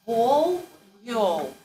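Vol hard then viol soft with a y-glide. Shown as a demonstration. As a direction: contrast Vol and viol clearly. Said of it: "You see how it works with the V".

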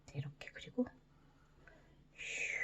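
soft whisper while drawing; whispering to herself mid-drawing. Real, not acted. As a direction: breathe it out under your breath.

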